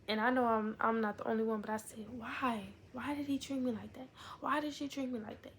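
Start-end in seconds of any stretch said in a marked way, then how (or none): 2.1-5.5 higher-pitched retold complaint, a touch hurt; mildly plaintive questioning. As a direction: act out asking why you were treated that way. Voices own past hurt questioning.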